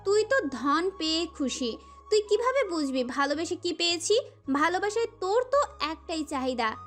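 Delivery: enraged. A narrator's reading. Prohelika rages at her captive about what love means, furious and scornful. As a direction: lash out with contempt, pitch swinging up. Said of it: "প্রহেলিকা প্রচণ্ড মাত্রায় ক্ষেপল".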